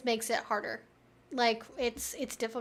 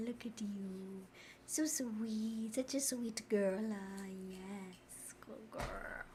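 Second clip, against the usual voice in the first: much softer, slow tender coo fading to a whisper; 3 semitones lower, 8 dB quieter, slower than usual. Real, not acted. Soothing her dog with soft murmured baby talk. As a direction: hush the dog lovingly, almost whispering.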